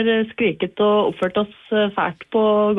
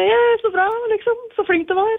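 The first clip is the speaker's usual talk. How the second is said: higher-pitched, half-hearted celebration; mild cheering; 11 semitones higher than usual. Retold or imitated. Golfer shows the caller how they celebrate, mildly cheering. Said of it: "Da sier vi".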